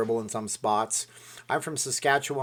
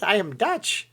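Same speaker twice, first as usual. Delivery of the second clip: mock Dutch; 10 semitones higher, 5 dB louder, slower than usual. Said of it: "she was from Holland".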